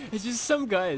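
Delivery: high, loud while still laughing. Real, not acted. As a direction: talk through the laugh. Laughing through chaotic story.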